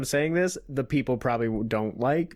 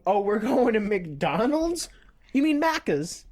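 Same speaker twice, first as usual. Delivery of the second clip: mock Australian; 6 semitones higher than usual. Imitating Australian slang.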